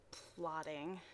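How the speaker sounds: low, soft drawn-out plotting; ominous hush. Acted. Narrator revealing what the twins do, low and sly. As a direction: drop the voice on plotting like a secret.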